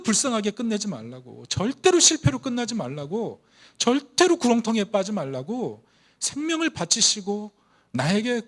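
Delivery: 높고 크게 외치는 설교; 회중을 향해 힘껏 선포하듯; 열정적 설교. Acted. (복음을 외치는 목사의 뜨거운 설교)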